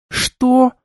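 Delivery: high, sharp indignant «Что?»; indignant hiss. A narrator's reading. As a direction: hiss it in outrage. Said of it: "возмущённо зашипела девушка". (возмущённое шипение)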